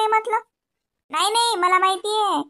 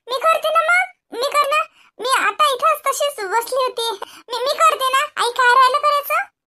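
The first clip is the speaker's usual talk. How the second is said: high, slow, tearful sobbing; crying daughter-in-law; 7 semitones higher, slower than usual. Acted. Daughter-in-law sobbing to her mother-in-law, high and slow. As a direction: sob it out like a wronged young bride.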